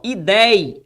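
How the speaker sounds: "ideia" slowly broken up, DEI held long; syllable by syllable. Shown as a demonstration. Teacher showing where the tonic syllable falls, "ideia" broken into syllables. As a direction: split "ideia" and lengthen the stressed DEI. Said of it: "onde tá a posição da sílaba tônica?".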